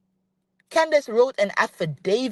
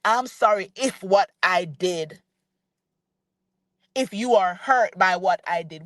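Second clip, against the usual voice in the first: insincere apology; 2 semitones lower than usual. Shown as a demonstration. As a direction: drag out a half-hearted sorry. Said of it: "To say to somebody".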